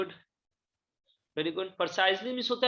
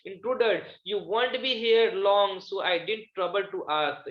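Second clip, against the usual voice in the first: slow, deliberate reading aloud of a drama line; slow classroom reading of the play; much slower than usual. Acted. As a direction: read each word out slowly for the class. Teacher reads the play aloud.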